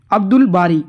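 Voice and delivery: "अब्दुल बारी" with the l of अब्दुल clearly sounded; laam pronounced. Shown as a demonstration. Teacher showing students that laam is read in "अब्दुल बारी", l pronounced. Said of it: "लाम का तलफ़ुज़ हुआ है".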